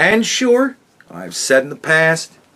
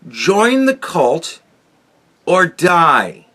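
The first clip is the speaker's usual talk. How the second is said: slow, higher, grim proclamation of a cult leader; slow ominous mock decree in a higher voice; mock tyrant decree; 4 semitones higher, 4 dB louder, slower than usual. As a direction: intone it like a tyrant reading a decree. Voicing the killers' implied message.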